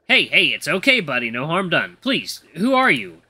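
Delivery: gentle coaxing, mildly done; trying to act calming. Acted. Eli soothes the trembling butler, trying to sound calming. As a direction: reassure a frightened little fellow. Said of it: "trying to act calming".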